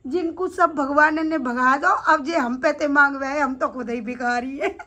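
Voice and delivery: mock-plaintive, breaking into a laugh; amused protest. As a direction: protest until laughter takes over at the end. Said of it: "और हंसे ही जा रहा है". (शिकायत करते-करते हँस पड़ना)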